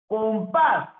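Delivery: "Compás" high, PÁS hit hard; stress on last syllable. Shown as a demonstration. Teacher showing a palabra aguda, "Compás" with stressed PÁS. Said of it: "es aguda".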